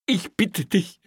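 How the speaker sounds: very high, loud whimper; whining plea. A narrator's reading. Officer begs his boss to let him go, whining. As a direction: beg in a pitiful whine. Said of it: "winselte Kreutner".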